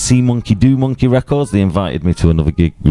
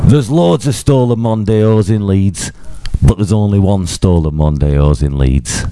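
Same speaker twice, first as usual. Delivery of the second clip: lightly put-on Yorkshire accent. Shown as a demonstration. Podcaster demonstrating a band's tagline to his co-host, Yorkshire accent. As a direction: try it in broad Yorkshire vowels. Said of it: "let me get a Yorkshire accent".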